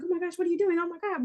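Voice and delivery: high, fading panic, imitating him; mock frantic. Littlefinger freaking out as he's seized, mock frantic. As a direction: pretend to freak out as guards close in. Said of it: "he's, like, frantic".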